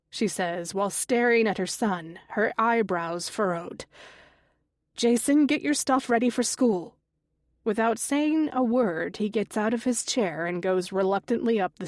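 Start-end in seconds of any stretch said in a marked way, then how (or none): 5.0-6.9 stern call. Acted. Mother calling son sternly.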